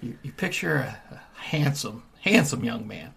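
soft close-mic voice; leaning into the mic. Acted. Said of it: "soften it up a little bit".

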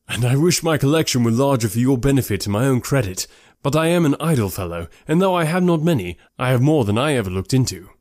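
lightly voiced genial gentleman; self-deprecating, lively character voice; Bingley. Host apologising for his small book collection, genial.

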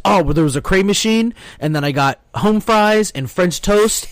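a hint of a chatty little daughter; lightly voiced little girl. Daughter tells the commander about breakfast, lightly voiced kid.

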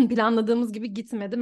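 throat clearing mid-sentence; with a lingering cough; coughing fit. Real, not acted. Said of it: "Ben hala biraz öksürüyorum".

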